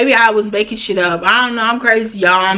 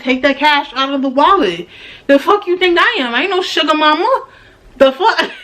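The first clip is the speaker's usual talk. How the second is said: higher-pitched, heated demand; retold indignant snap; 6 semitones higher than usual. Telling her date to pay with his wallet cash, indignantly. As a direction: put him in his place, indignant.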